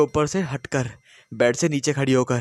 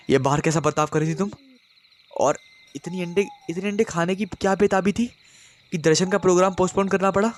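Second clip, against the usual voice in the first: insistent anger; 6 semitones higher than usual. A narrator's reading. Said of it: "अपनी बात पर जोर देते हुए बोला".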